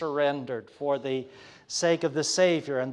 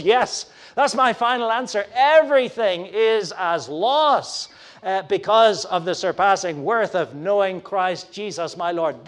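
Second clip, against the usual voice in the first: utterly emphatic; 3 semitones higher, 7 dB louder than usual. Retold or imitated. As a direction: declare it as a final answer. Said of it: "Paul is utterly emphatic".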